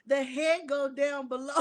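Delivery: reading while giggling; words shaken by laughter; laughing. Real, not acted. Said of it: "get the laughter out of me".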